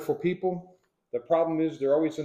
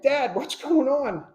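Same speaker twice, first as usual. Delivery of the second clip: put-on child's question; 10 semitones higher, 4 dB louder, slower than usual. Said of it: "I'm like".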